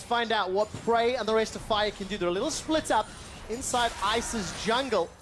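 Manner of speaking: barely put-on American accent; half-hearted American play-by-play; terrible American accent. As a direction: call the fight in a badly faked American accent. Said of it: "next fight you do an American accent".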